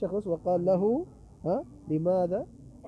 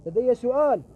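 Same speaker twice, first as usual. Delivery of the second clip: put-on drunk man calling out; 3 semitones higher than usual. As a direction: call after him like a drunkard demanding attention. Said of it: "وإذا بهذا المخمور يقول له".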